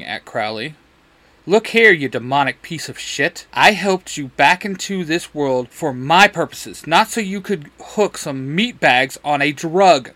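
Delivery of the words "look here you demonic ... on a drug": mild mock bark; understated angry scolding. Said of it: "Crowley barked out".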